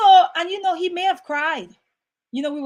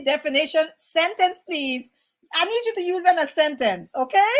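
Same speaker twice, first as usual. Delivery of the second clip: spelling bee contestant; 3 semitones higher than usual. Pretend. Playing a spelling bee contestant wanting the word in a sentence, mock-formal. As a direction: play-act a contestant's request to the judge. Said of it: "when you're in the spelling bee".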